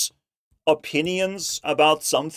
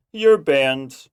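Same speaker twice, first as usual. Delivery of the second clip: laughing as he says it; chuckling through the words; 3 semitones lower than usual. Real, not acted.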